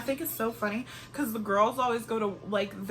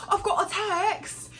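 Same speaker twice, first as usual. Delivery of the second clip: mock excited shout, higher and slow; excited squeal; 10 semitones higher, 5 dB louder, slower than usual. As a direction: announce the text like big news. Mimicking contestants getting a text.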